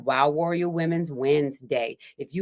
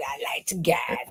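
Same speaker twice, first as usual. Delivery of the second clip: playful whisper; 2 semitones lower, 4 dB quieter than usual. Pretend. Teasing aside to viewers.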